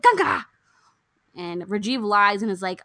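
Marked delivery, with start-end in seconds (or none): 0.0-0.5 high, loud movie-villain bellow; imitated iconic yell. Imitating a film patriarch calling for Ganga, iconic yell. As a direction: yell the name out like Amresh Puri. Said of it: "iconic yelling".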